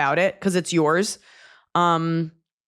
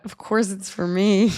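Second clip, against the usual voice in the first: slow inner thought; slower than usual. Retold or imitated. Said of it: "I also thought".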